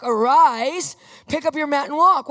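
a ringing command, arise stretched out; commanding shout. Acted. Peter commands the lame man to stand, ringing. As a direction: order the lame man to rise.

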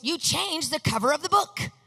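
mildly hammed-up indignation; mock yelling. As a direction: accuse like an upset mother, half-yelled. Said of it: "starts kind of yelling at me".

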